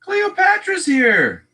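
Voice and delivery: high, drawn-out fanfare; slow squeal of welcome; excited announcement. Real, not acted. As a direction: herald an arrival in a high, stretched call. Excitedly announcing a viewer's arrival.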